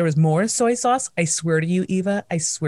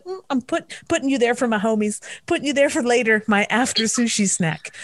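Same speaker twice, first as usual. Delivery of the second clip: higher, sneaky hoarding voice; sly squeaky voice; 4 semitones higher than usual. Pretend. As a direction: coo to the grain of rice. Acted self hiding rice.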